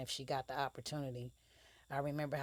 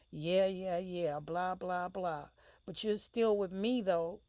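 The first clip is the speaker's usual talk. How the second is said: higher, louder sing-song brush-off; dismissive taunt; 5 semitones higher, 6 dB louder, slower than usual. Acted. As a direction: wave him off, then needle him.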